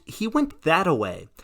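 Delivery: slow, hammy fake Southern accent. Fleeing president fools his secretary, loud fake Southern accent. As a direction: drawl it in a put-on Southern accent, proclaiming. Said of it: "in a fake Southern accent".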